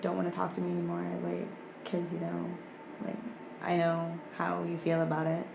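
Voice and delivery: low, soft, even retelling; calm and collected. Retold or imitated. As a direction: keep it calm and composed, quietly. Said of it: "I sound all calm and collected now".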